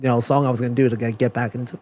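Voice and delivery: out of breath; short of breath, gasping between words; breath catch. Real, not acted. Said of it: "lost my breath".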